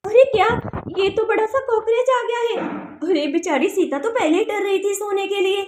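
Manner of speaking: lively storyteller alarm; excited narration. A narrator's reading. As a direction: build suspense for the audience. Narrator reacts to the cockroach.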